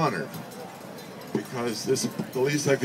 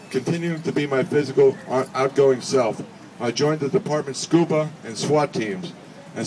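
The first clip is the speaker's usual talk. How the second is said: reading Roger's speech. Acted. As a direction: deliver his friend's words with measured dignity. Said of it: "I would be Roger's voice".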